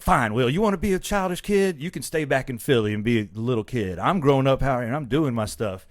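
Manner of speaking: imitated fed-up telling-off; mock scolding. Tyra arguing with childish Will, mock angry scolding. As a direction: scold him, starting high and loud.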